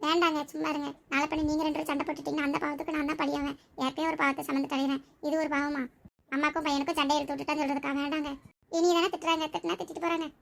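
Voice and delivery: subdued, sorrowful plea; tearful pleading. Acted. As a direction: plead softly, holding back tears. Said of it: "அழுதுட்டே இருக்காத". (அழுகையை அடக்கிய மெல்லிய கெஞ்சல்)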